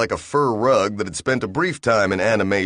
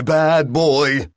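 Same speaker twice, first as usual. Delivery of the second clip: louder, higher scolding burst; shrieking reprimand; 6 semitones higher, 4 dB louder than usual. Acted. Reprimand shrieking in Bill's head, loud and high. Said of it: "was shrieking in his head".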